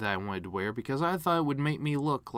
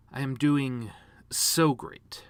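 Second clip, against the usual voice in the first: sarcastic reply; 3 dB louder, much slower than usual. Retold or imitated. Sarcastic stock answer, whispered.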